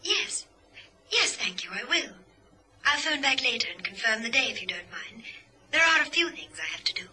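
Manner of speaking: high, thin voice down the line; telephone voice. Acted. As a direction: speak from the far end of a call.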